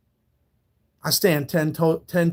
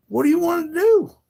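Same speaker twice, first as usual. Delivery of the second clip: whispered, higher taunt; mock whisper; 11 semitones higher than usual. Streamer taunts the troll who threatened him, whispered mockery. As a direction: hiss the dare back at him.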